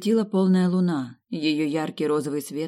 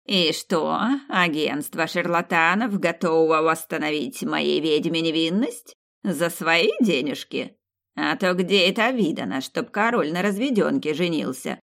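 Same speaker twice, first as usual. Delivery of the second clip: snide. Acted. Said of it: "раздался ехидный голос".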